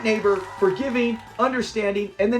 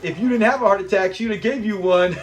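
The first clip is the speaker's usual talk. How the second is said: laughing. Retold or imitated. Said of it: "that is another great line".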